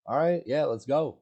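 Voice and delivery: mock eager old Ben saying let's go; eager agreement. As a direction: jump at the offer.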